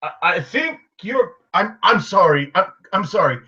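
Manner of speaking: confused. Acted. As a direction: stumble over it in confusion.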